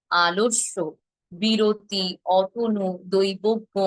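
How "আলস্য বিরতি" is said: ordinary talk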